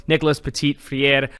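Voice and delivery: clumsy attempt at a French accent; French-accented name, badly faked; botched French accent. Real, not acted. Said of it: "I'm never doing the French accent".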